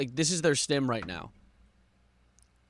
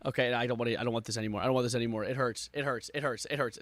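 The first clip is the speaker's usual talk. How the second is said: defeated whimper; 4 semitones lower, 6 dB quieter than usual. Real, not acted. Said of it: "pushed me to a point of breaking".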